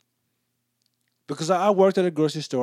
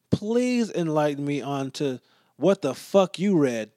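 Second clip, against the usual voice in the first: sarcastic inner voice. Retold or imitated. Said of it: "in my mind".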